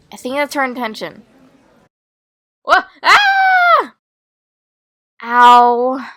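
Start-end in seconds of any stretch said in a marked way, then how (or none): 2.6-3.9 loud, very high falling scream; startled scream. Acted. Falls while flying. 5.2-6.1 loud, drawn-out ow; cry of pain. Acted. Hurt after crash.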